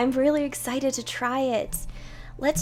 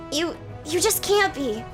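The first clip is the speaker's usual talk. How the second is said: anxious knight; 5 semitones higher, 3 dB louder than usual. Acted.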